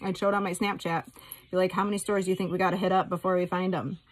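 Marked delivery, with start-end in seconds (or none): 1.7-4.1 laughing through the question; giggly playful question. Retold or imitated. Retells her playful Snapchat question.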